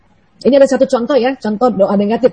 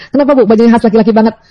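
usual speaking voice

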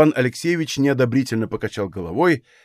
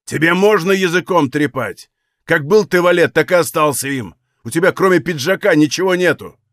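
raised, scornful accusation; angry cry; 3 semitones higher, 4 dB louder than usual. Acted. Григорий turning on Валет, crying out in anger. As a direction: lash out with angry contempt. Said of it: "крикнул".

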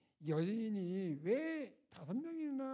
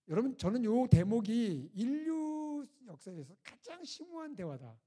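emphatic preaching; 6 semitones higher, 9 dB louder, slower than usual. Real, not acted. Preacher stresses key point.

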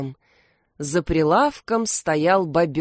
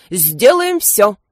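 louder, slow eager assistant's echo; 3 semitones higher, 7 dB louder, slower than usual. A narrator's reading. Assistant echoing his boss, eager louder echo. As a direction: repeat the boss's promise with zeal. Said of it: "повторил Крембо".

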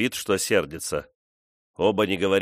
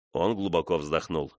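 ordinary delivery, nothing marked

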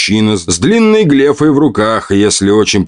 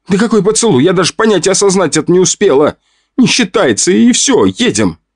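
high, fast flustered protest; 9 semitones higher than usual. Acted. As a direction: blurt it out, embarrassed.

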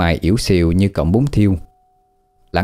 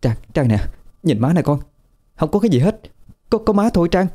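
soothing mother; 9 semitones higher, faster than usual. A narrator's reading. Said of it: "rồi vỗ vỗ vai con nhỏ trấn an".

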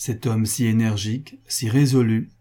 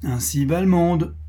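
higher, world-weary lament; sighing resignation; 8 semitones higher, 3 dB louder than usual. A narrator's reading. Pascal commenting on the way of the world, sighing resignation. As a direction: lament it with a mild sigh. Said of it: "reprit monsieur Pascal en soupirant".

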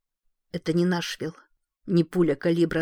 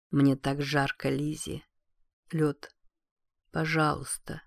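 weak dying voice; 3 semitones lower, 4 dB quieter than usual. Acted. Dying husband asks for ice.

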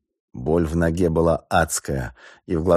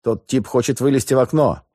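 alarmed shout; 8 semitones higher than usual. A narrator's reading. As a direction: shout the warning. Wounded man warns in firefight.

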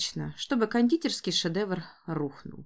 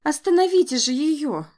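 louder, higher cry for help; desperate shout; 6 semitones higher, 6 dB louder than usual. Acted. Lerdes shouting desperately for help stopping her mother. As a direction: yell for someone to stop her. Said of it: "отчаянно закричала Лердес".

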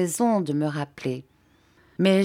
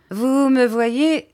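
high, lilting, drawn-out gaiety; cheerful; 7 semitones higher, 5 dB louder, much slower than usual. A narrator's reading. Steerforth laughs and answers his friend, cheerful. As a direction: launch in merrily, stretching the words. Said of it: "et me dit gaiement".

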